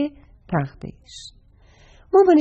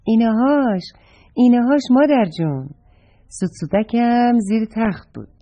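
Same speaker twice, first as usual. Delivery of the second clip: happy; 2 semitones higher, 3 dB louder than usual. Acted. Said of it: "با خوشحالی اونو برداشت".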